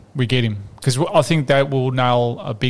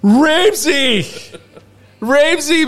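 1 laughing exclamation; 10 semitones higher, much slower than usual. Acted. Exclaiming name mid-rant, laughing.

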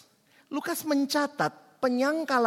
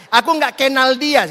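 loud denial; 3 semitones higher, 12 dB louder than usual. Retold or imitated. Peter's third denial acted.

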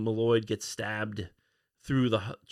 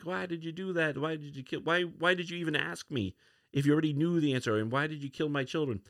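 higher-pitched, understated retold fury; mock angry outburst; 5 semitones higher than usual. Furious father confronting the killer of his children, mildly acted anger. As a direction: demand answers in mild, higher-pitched indignation. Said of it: "Manthibian is angry, furious".

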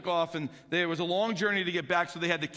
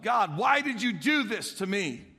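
pleading cry; 3 semitones higher, 4 dB louder than usual. Retold or imitated. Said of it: "wondering to yourself".

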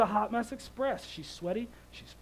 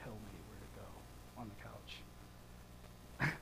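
sassy daughter; 10 semitones lower, 13 dB quieter than usual. Retold or imitated. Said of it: "She looks at me like".

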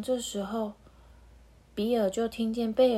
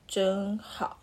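wistful. Acted. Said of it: "语气听起来好像有点落寞".

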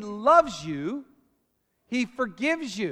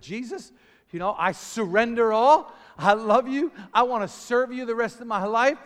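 fervent prayer; 2 semitones higher, 4 dB louder than usual. Retold or imitated. Retold fervent prayer at conversion.

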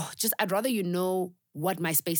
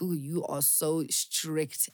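mock teasing; much slower than usual. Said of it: "people keep using this word strict".

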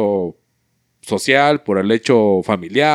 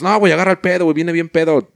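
friends pleading; 5 semitones higher than usual. Retold or imitated. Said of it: "Y sus compas".

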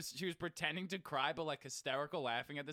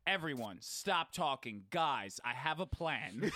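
put-on bossy little kid; 4 semitones lower, slower than usual. Kid bossing the group, imitated.

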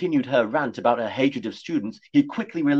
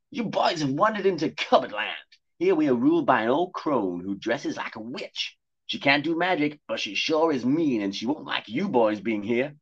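high, prim cat voice warning of danger; posh talking cat; 4 semitones higher than usual. Acted. Cat warning the boys of danger, high and prim. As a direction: play the cat as a fussy gentleman.

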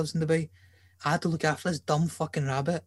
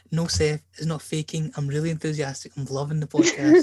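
mildly keen, louder at the end; demonstrated fake enthusiasm; 5 dB louder than usual. Shown as a demonstration. Host showing co-host what to say, fake enthusiasm. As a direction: model some put-on enthusiasm, building in volume. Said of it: "able to fake the enthusiasm".

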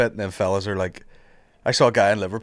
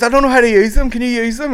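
lightly voiced girl; 10 semitones higher, 6 dB louder than usual. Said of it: "And she goes".

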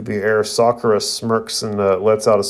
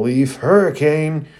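battle yell; 5 semitones higher than usual. Acted. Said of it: "you hear Rock Lee's voice yell".

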